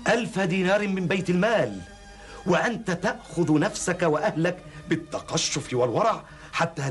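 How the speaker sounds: rising, outraged demand; indignant questioning. Acted. Visitor indignantly questions the caliph.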